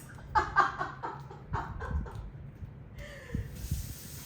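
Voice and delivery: long airy giggle that trails down; breathy laugh. Real, not acted. Vlogger laughing at herself after hand washing, breathy giggle. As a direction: laugh at yourself, breath only.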